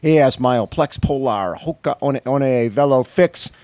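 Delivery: upbeat, projected sponsor read and guest intro; show host announcer. Real, not acted. Host welcoming a race guest to the breakfast show, announcer style. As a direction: introduce the guest to a crowd with punch.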